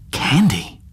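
Candy said high, a puzzled question. Shown as a demonstration. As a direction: ask Candy in disbelief. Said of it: "name repeated, weighed in different ways".

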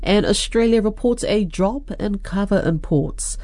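measured radio news headlines; news presenter read. Real, not acted. Presenter opens the weekly Pacific business wrap-up, news read. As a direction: introduce the bulletin, then hand over to the reporter.

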